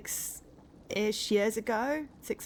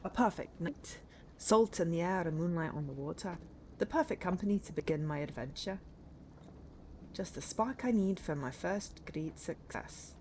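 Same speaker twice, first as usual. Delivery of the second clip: put-on game hero read with a Scottish accent; 4 dB quieter than usual. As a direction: read it as a Scotsman, unhurried. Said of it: "I've decided he's Scottish".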